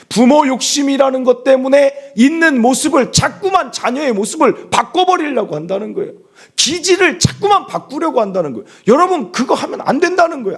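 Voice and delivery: loud-pitched, insistent preaching; forceful preaching. Real, not acted. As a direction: press the congregation hard, voice high. Preacher presses the point. (힘주어 외치는 설교)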